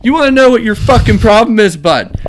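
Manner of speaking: high, loud mocking rant at a coworker; imitated angry shout. Pirate coworker taunting the kid about the turkey, loud angry shout. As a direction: yell it like a furious hothead goading someone. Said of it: "more and more pissed".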